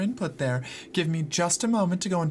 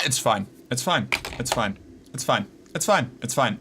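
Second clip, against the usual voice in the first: low, falling, deadpan repeats; sarcastic it's fine; 5 semitones lower than usual. Real, not acted. Streamer to chat about the broken camera, deadpan sarcasm. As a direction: say it like it clearly isn't fine.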